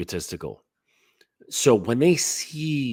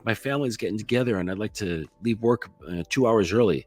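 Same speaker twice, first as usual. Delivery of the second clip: higher, unthreatening voice asking a favor; raised friendly voice; 4 semitones higher than usual. Acted. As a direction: pitch it up to ask the boss nicely. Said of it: "they'll often raise your voice".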